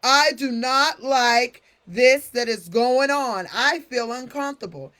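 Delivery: calm superhero delivery even in a tantrum. Retold or imitated. Teacher imitating a student mid-tantrum, booming. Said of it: "he talks in the same way".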